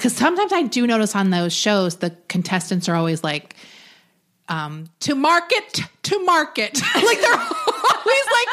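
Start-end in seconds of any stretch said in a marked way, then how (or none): 4.5-5.8 every syllable emphasized and stressed. Describing game-show contestants, mimicking how they talk, stressing every syllable. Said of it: "really stressing every syllable".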